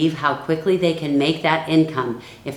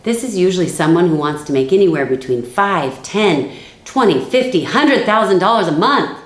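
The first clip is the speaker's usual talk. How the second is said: hyped-up money pitch; 2 semitones higher, 3 dB louder than usual. Shown as a demonstration. Recruiter hyping the income to a new builder, rising excitement. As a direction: voice climbing and louder as the numbers grow. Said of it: "I am not going to say it like this".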